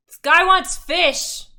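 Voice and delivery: loud, high, drawn-out holler; yelling. Acted. Innkeeper shouting an order to the back room, yelling. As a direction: pass the order on at a yell. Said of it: "and yells".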